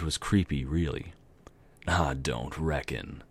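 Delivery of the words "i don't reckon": put-on southern accent. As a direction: drawl it slowly, southern style. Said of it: "random southern accent".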